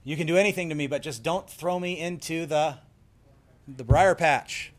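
a hint of a begging trickster; Brer Rabbit. Caught rabbit begs the fox, mock pleading. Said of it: "And Brer Rabbit says".

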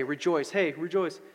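light, quick toss-off of rejoice; casual cheer. Retold or imitated. Preacher mimicking what Paul doesn't just say, casual cheer. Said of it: "He doesn't j-, just say".

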